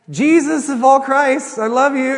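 high, loud, slow fervent imitation; clumsy neighbor blessing. Pastor imitating neighbor's clumsy blessing, high and loud. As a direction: ham up his earnest blessing.

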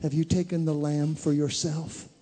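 ordinary talk, nothing marked

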